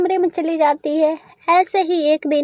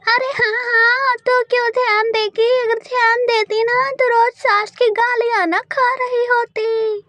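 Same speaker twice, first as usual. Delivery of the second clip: higher mocking old crow; taunting mother-in-law; 5 semitones higher than usual. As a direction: sneer at the bahu. (ताना मारती सास)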